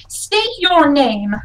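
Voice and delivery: slow, firm command; stern challenge. Acted. Sinead holding up her lance at strangers, stern challenge. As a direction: demand it like a guard.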